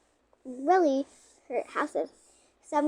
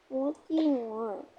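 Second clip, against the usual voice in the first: creepy voice; 4 dB quieter than usual. Pretend. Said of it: "my creepy voice".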